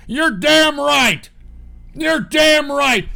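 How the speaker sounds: slow, high, loud approval; excited approval. Real, not acted. Backing the governor, slow and loud. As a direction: drive it home with gusto.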